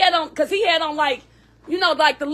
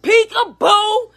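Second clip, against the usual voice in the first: drawn-out, louder sing-song peekaboo; playful peekaboo call; 5 semitones higher, 3 dB louder, much slower than usual. Retold or imitated. Mother calling for her baby in the store, slow sing-song. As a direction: stretch each peekaboo out like calling a hiding child.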